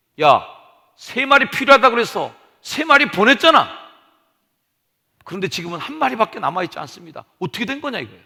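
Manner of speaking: sudden loud, high angry outburst.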